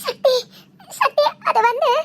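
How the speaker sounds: half laugh, half sob, breaking up; too overjoyed to get the words out; laughing through tears. Acted. Pregnant sister tells brother the scan news, laughing through tears.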